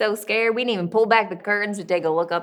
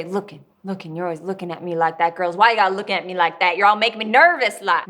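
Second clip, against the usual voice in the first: building from usual level to loud, quick complaint; agitated father; 6 dB louder, faster than usual. Acted. Father rounding on his watching girls, agitated and rising. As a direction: accuse them, faster and louder as it goes.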